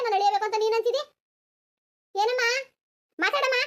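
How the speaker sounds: a lightly voiced mother-in-law, sharp and accusing; scolding mother-in-law. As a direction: nag and accuse, demanding answers. Mother-in-law scolds her daughter-in-law's mother.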